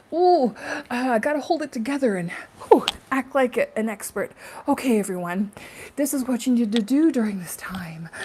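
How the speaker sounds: high, loud, pompous guru mock; mock expert. Mocking experts who act like they know, high pompous voice. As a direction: ham up a self-important expert. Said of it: "I'm not here like".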